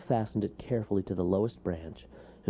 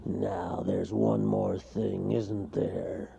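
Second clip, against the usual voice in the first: menacing; much slower than usual. Acted. Bear menaces toad.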